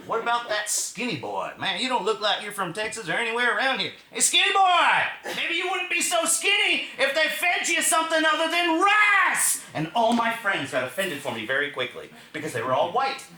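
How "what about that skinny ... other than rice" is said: taunting local redneck. Retold or imitated. Missouri local taunting the skinny boy, high loud hick jeer.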